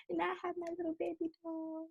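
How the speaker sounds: high, soft, cooing. Real, not acted. Telling her friend about her dog in high, soft baby talk. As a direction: melt over your little dog.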